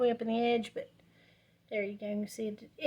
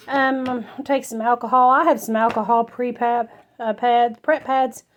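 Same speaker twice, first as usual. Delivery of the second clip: breathless from running back and forth; talking while catching breath; 6 dB louder than usual. Real, not acted. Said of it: "Sorry, I'm out of breath".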